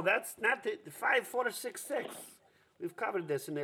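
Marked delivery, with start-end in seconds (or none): 0.9-2.1 dictating slowly. Acted. Repeats number with impatience.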